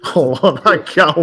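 loud excited call-out. Real, not acted. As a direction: jump in loudly with it. Grabbing turn, calling out.

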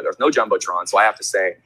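ordinary talk

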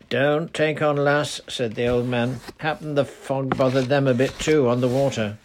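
put-on gentle old countryman reassuring a girl; lightly voiced old man telling a girl not to fret; old charcoal burner comforting. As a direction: soothe her in easy dialect.

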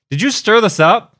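high mock girlfriend complaint. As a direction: girlfriend asks from the car in a high imitating voice. Girlfriend quoted in car story.

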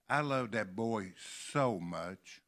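slow quote with "so" drawn out and stressed. Retold or imitated. Preacher quoting folks who dearly love a boy, stress on SO. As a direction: lean long and hard on "so". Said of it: "I want you to remember that so".

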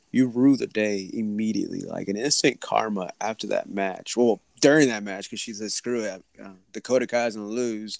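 glitchy robotic connection. Real, not acted. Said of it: "your voice is just, like, it stops".

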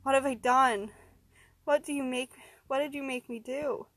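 high, anguished questions, acted grief; sobbing. Man beside dead friend to captors, acted sobbing. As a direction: raise the pitch in tearful horror.

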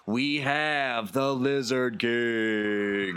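booming ring announcement, last line drawn out; arena announcer. Acted. Announcer introducing the Lizard King to the arena, ringing and drawn out. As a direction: hype the crowd for the champion. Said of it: "He says".

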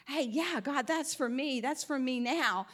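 light up as it finally clicks; a sudden happy "hey, that's for me"; excited realization. Retold or imitated. Believer finally gets the revelation.

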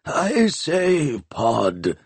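mild angry complaint. A narrator's reading. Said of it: "complained Nancarrow angrily".

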